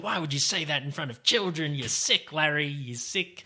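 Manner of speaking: mildly indignant scolding, imitating; mock angry. Imitating Susie scolding Larry in front of children, mock angry. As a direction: act out a telling-off without raising your volume. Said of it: "angry. She's like".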